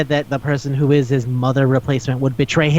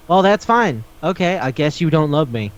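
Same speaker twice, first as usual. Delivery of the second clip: guilt-tripping. Shown as a demonstration. Showing how you guilt somebody into something, mock guilt-tripping. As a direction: act out a passive-aggressive guilt trip. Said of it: "guilting somebody into doing something".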